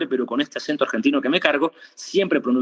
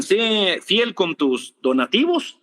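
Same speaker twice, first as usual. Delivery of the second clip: mock pastor; 5 semitones higher, slower than usual. Mocking pastors who demand donations.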